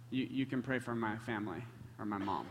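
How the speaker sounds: low, soft, halting reply; hesitant acceptance. Retold or imitated. Younger man on the porch accepting prayer, quiet and hesitant. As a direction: give in quietly.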